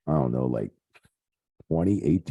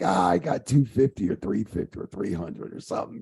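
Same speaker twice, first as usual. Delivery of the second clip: Big Show's casual answer; 7 semitones higher than usual. Retold or imitated. Big Show answering about pay.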